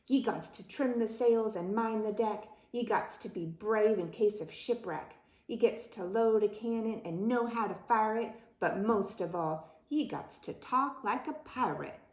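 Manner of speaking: rhythmic pirate declaration; fed-up pirate captain. Acted. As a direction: lay down the rules to the last rascal. Fed-up pirate lists his demands.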